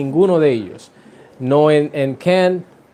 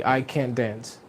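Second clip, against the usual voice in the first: slow, "can't" stressed, softer overall; 3 semitones lower, 9 dB quieter, slower than usual. Shown as a demonstration. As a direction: hit "can't" and let "dance" fall away. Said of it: "pero en el modal verb". (énfasis en "can't", lento y suave)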